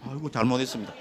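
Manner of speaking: King Yama. Acted. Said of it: "염라대왕".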